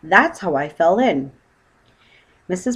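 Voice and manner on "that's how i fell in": cry. Acted. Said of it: "cried Paddington".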